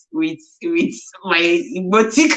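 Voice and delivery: giggling while speaking; laughing through words. Real, not acted. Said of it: "my Igbotic accent".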